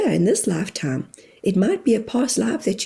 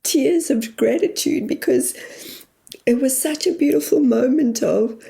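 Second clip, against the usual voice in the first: tearful; 4 semitones higher than usual. Real, not acted. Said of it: "that's your emotion right there".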